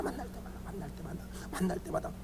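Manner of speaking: hushed, low echo of the rule; whispered repetition. Real, not acted. Pastor drilling youths to greet every time, whispered. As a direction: drop to a near-whisper and repeat. Repeats the rule under breath.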